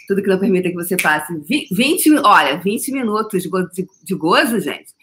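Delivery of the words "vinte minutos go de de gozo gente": usual speaking voice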